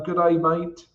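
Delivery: mild mock Australian accent. Shown as a demonstration. Trader greeting an Australian viewer, mock Australian accent. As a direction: greet with a light Australian twang. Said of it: "That was my Australian accent".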